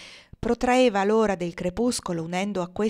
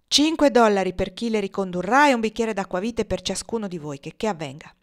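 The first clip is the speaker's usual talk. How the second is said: loud commands; 4 dB louder than usual. Acted. Legree commands his men.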